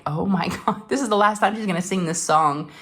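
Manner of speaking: laughing through a choked-up line; laughing teary quote. Retold or imitated. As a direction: laugh while welling up. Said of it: "and I'm like".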